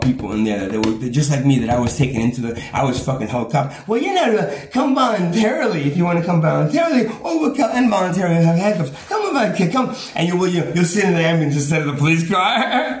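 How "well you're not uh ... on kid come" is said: lightly acted higher-pitched officer; retold officer's coaxing. Officer telling a patient to come voluntarily, lightly mock coaxing. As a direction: put on a coaxing authority voice, a bit higher. Acting out police at hospital pickup.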